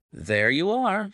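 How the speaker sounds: pleased, slow rise in pitch with a smile; smiling. A narrator's reading. Holmes to Mister Acton after his account, smiling. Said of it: "said Holmes, smiling".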